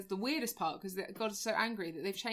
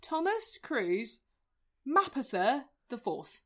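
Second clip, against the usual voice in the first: grand announcement; 4 semitones higher, much slower than usual. Pretend. Announcing full name grandly.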